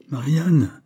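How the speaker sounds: appel plus haut et plus fort depuis la pièce voisine; un père malade qui appelle sa fille de loin; crié. A narrator's reading. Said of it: "cria de la pièce voisine". (le père crie à Marianne depuis l'autre pièce)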